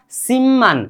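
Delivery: सिमन with a held double m, no p; correct pronunciation. Shown as a demonstration. Teacher repeats the corrected word for learners, correct pronunciation. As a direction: say सिमन as sim-man. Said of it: "शिपमान नहीं कि सिमन".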